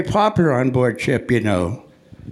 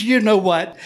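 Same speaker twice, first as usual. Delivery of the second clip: higher-pitched, eager lead-in; excited lady; 6 semitones higher than usual. Retold or imitated. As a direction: imitate an excited fan bursting to share. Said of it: "She's all excited".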